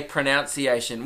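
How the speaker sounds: pronunciation as pro-NOUN-ciation; habitual mispronunciation. Shown as a demonstration. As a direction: say pronunciation with "nounce" in the middle. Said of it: "which sounds wrong".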